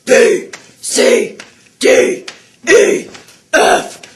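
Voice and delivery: jumping jacks. Shown as a demonstration. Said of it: "do your A B Cs and do jumping jacks".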